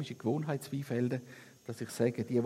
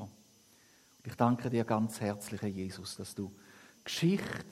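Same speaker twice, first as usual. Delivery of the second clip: prayer. Real, not acted. Closing prayer. (leises Schlussgebet)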